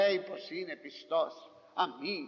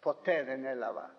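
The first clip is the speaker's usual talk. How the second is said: voicing Christ with gentle complaint, understated; plaintive. Christ complaining to the faithful, mild plaintive tone. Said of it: "με παράπονο θα μας πει".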